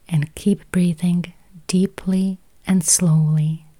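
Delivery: usual speaking voice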